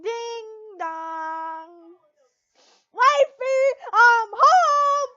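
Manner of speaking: loud, high cheerful call through the house. Acted. Husband announcing he's home, calling loudly. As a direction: shout it from the front door.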